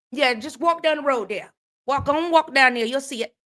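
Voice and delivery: breezy Southern directions; put-on country Southern accent; Southern country folk imitated. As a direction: mimic easygoing Southern kinfolk. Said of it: "That's how".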